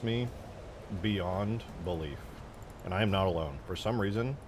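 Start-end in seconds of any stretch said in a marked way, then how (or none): 0.0-2.2 slow disgust. Real, not acted. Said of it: "It disgusts me".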